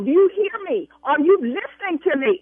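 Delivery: furious customer; angry. Real, not acted. Furious at airline agent.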